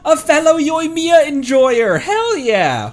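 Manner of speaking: high, loud raid hype; excited shout. Real, not acted. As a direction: cheer the raiders in.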